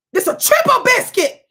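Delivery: high, loud outraged squeal; shrieking in disbelief at the story; incredulous shriek. Real, not acted. Streamer shrieks at the history, loud and high.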